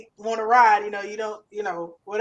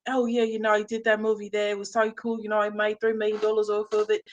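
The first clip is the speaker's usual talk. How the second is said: put-on British accent. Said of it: "when you get to talk to him".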